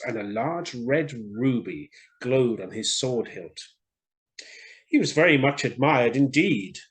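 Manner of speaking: put-on gentle storytelling voice for children; story narration. A narrator's reading. The speaker reading a fairy tale to children, storytelling. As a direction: read it like a bedtime story.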